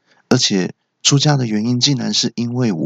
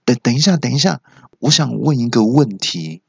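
mildly urgent; 3 semitones higher than usual. Acted. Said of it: "我就急着说".

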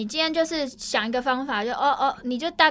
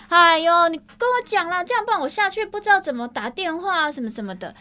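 light whiny cajoling, higher; mock coaxing plea; 5 semitones higher than usual. Mimicking colleagues coaxing a grumpy dispatcher, mock wheedling. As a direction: wheedle sweetly like a pleading junior. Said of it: "其他人会微撒娇说".

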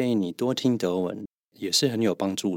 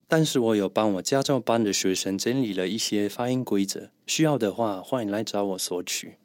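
ordinary talk

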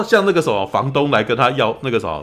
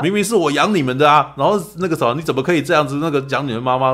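mother mock anger; 5 semitones higher, 4 dB louder than usual. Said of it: "然后妈妈就会气说".

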